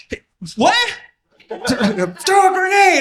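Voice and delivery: high, loud, slow laughing question; laughing disbelief. Retold or imitated. Sanchez can't believe he's asked to throw it, laughing high. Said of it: "And I was like".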